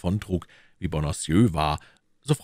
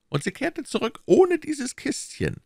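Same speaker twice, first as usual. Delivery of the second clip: higher, pressing questions as the Cardinal; Cardinal questioning. Acted. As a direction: interrogate his agent coolly. (der Kardinal, verhörend)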